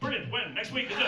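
delighted Irish worker. Acted. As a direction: welcome the news, Irish and unbothered. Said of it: "In Ireland, we can lose our jobs".

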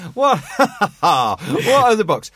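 loud, high mock surprise, slowing down; surprised. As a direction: retell your own what? with disbelief. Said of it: "my wife goes".

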